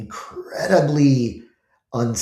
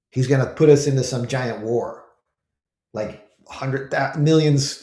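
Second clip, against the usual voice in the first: mock panicked critic; 4 semitones higher than usual. Media critic mocking Trump with rising mock alarm. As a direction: play the media critic working himself into panic. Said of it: "Twitter or the media or whoever says".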